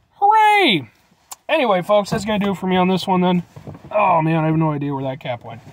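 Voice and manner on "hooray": drawn-out cheer. Real, not acted. Cheering the ginger ale.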